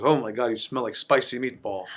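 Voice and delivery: loud, gushing accented dad impression; dad's accent. Dad hugs the girl's mom, loud accented compliment. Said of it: "It's your accent".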